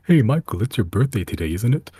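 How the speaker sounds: high, piping rat voice. Acted. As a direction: pipe up like a sneaky rat. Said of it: "you hear a voice sort of just pipe up".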